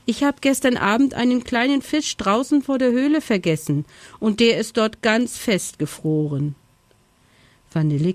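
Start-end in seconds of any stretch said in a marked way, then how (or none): 0.1-6.6 raised, higher storybook call. A narrator's reading. Little bear tells friends about a forgotten fish, calling out. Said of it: "rief Erdbeer".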